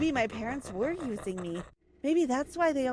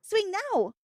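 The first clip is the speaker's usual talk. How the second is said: inner voice; 10 semitones higher than usual. Acted. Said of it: "it said".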